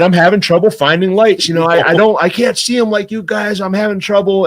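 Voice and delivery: imitating a helpless old man asking for help; feeble old man. Guide retells an old retiree begging for fishing help, mock feeble voice. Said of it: "seemed innocent, feeble".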